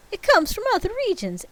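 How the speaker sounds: high, fast Russian ghost; Russian accent. Acted. Ghost tells Scrooge in high, fast Russian accent. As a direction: rush it in Russian. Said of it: "not in Russian".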